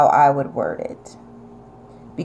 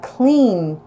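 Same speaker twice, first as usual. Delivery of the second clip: New York accent; 4 semitones higher than usual. Shown as a demonstration. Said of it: "My upper New York accent is coming up".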